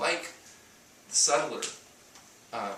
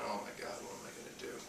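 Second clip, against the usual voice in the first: whispered inner panic, much softer; panicked whisper; 6 semitones lower, 15 dB quieter, faster than usual. Retold or imitated. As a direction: breathe it to yourself in mock dismay. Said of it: "I'm thinking".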